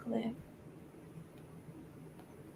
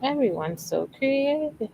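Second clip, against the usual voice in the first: TikTok lady impression; 5 semitones higher, 3 dB quieter than usual. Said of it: "Where is that from?".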